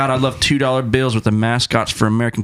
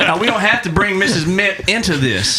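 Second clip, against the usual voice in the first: high put-on voice; 6 semitones higher, slower than usual. Playing the President character.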